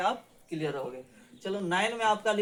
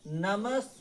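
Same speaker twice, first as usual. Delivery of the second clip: slow demo; much slower than usual. Shown as a demonstration. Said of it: "दंत स होता है".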